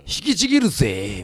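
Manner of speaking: mock battle cry. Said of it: "みたいな".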